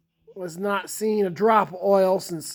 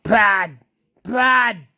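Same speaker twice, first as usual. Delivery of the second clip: mock angry outburst; 6 dB louder than usual. Angry answer to the clerk.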